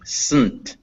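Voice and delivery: Sunt with N carrying the syllable; syllabic N. Shown as a demonstration. Teacher repeating the syllable for a student, "Sunt" with syllabic N. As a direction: say "Sunt" with barely any vowel before N. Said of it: "the N kind of is the vowel".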